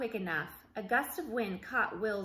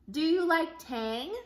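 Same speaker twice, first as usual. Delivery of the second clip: higher, louder, slow pushy questions; mob of reporters; 6 semitones higher, 5 dB louder than usual. Acted. Reporters call questions at Jake, loud high pushy. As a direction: pepper him like a reporter.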